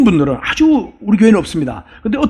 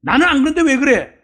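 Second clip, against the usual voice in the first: higher-pitched, repeated reproach; judgmental nagging; 5 semitones higher than usual. Acted. Self-appointed judge criticizing other people, reproachful. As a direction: act out a fault-finder needling someone. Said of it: "심판자가 아니고 다른 사람 비판하고".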